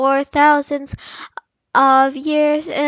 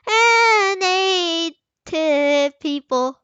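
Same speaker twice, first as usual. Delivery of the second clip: slow, high silly read; 3 semitones higher, much slower than usual. Pretend. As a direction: keep clowning through the sentence. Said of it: "Can you be serious?".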